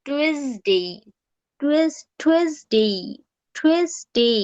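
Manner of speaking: "টুয়েসডে" split and stretched, Z for S; Z pronunciation. Shown as a demonstration. Teacher swapping ES for Z, drawn-out model pronunciation. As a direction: say "টুয়েসডে" in two long syllables, "tuez-dey". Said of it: "ই এস টা না রাখা জেড আনবা".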